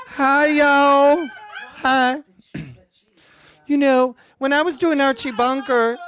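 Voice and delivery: lightly voiced TV actress, chirpy and sincere; a hint of a celebrity charity visitor; Sally Struthers. Sally Struthers arrives with food.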